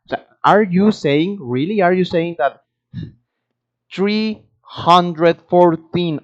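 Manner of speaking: emphatic, disbelieving rhetorical question; incredulous challenge. Real, not acted. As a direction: challenge them as if it's absurd. Challenging those who call American English incorrect.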